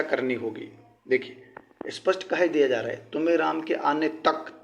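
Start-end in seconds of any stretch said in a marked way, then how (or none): 3.1-4.6 slow phrase, weight on तक; stress on तक. Shown as a demonstration. Teacher pointing students to the word तक, emphatic. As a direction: lean on the final तक. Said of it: "तक पे विशेष गौर करिए".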